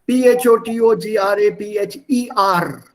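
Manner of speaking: letters spelled out one at a time. Shown as a demonstration. Teacher spelling a longer word, letter by letter. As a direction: spell each letter out for the class. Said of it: "how do you pronounce that?".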